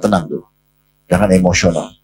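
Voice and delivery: pelan dan lebih lembut, menenangkan; tenang. Retold or imitated. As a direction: redakan amarah Umar dengan lembut. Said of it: "Nabi dengan tenang memberikan isyarat". (Nabi menenangkan Umar, lembut dan lebih pelan)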